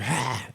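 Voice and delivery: imitated preacher's hacking "ah"; mock throaty preacher exhale; phlegmy preacher gasp. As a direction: hack out an "ah" like that preacher. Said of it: "he got phlegm in his throat".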